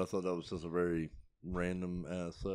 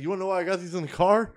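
higher, louder mock guy; imitating the customer; 10 semitones higher, 7 dB louder than usual. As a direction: voice the roach guy proudly. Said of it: "he's like".

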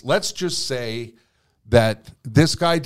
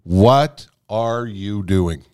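slow repeated self-question; 3 semitones lower, much slower than usual. Retold or imitated. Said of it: "I thought to myself".

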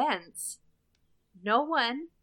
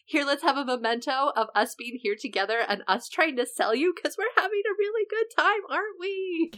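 cheerful; 4 semitones higher, faster than usual. Retold or imitated. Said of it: "he's like".

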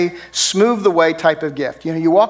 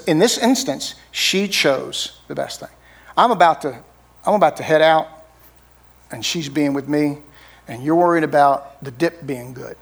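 gentle Jesus. Retold or imitated. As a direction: explain it gently, not as a rebuke. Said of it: "But he doesn't say it like that".

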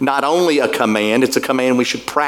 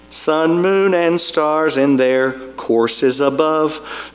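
hymn recitation; slower than usual. Acted. Hymn lyrics recited slowly over music.

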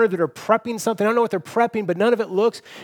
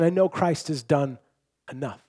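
quiet assurance; 4 semitones lower, 5 dB quieter than usual. Retold or imitated. Confident believer's words quoted.

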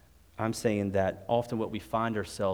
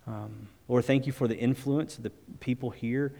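steady, earnest prayer voice, speaking to God; closing prayer. Real, not acted. Pastor praying over the church in closing prayer, earnest. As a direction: pray it over the room, unhurried.

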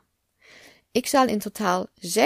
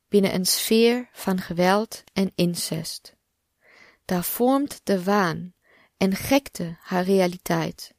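slow, measured poem reading with deliberate pauses; poem recitation. Acted. Podcast host reads a survivor's poem to listeners, measured recitation. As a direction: recite it line by line, giving each phrase room.

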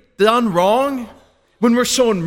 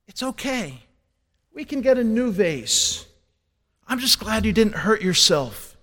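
soft, reassuring mother's voice; calm the frightened child softly; gentle reassurance; 4 dB quieter than usual. Pretend. Mother comforting scared child.

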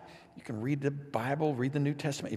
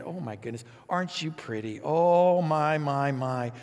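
doting relative. Retold or imitated. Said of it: "God just pats us on the head".

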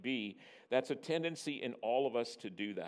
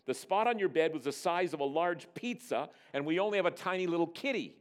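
raised, higher voice of disbelief; mild bellow; 5 semitones higher, 3 dB louder than usual. Acted. Father disputing the cat alibi, mildly bellowed. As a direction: argue back in mock indignation. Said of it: "I bellowed".

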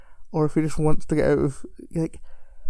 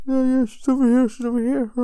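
higher-pitched mock crowd chatter; crowd calling out; 7 semitones higher, 3 dB louder than usual. Audience members giving away where she sits, mock calling out. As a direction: imitate eager bystanders pointing someone out.

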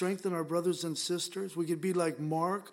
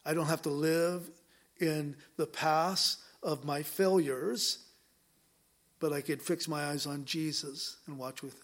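fervent prayer. Acted. Pastor praying over the congregation and online viewers, fervent prayer. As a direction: pray over the room with conviction.

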